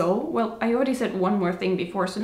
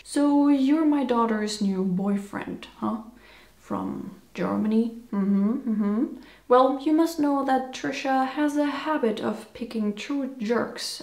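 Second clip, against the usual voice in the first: suspicious father. Acted. Father questioning his daughter's new boyfriend from Germany, lightly played suspicion. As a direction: size up the new boyfriend, drawing words out.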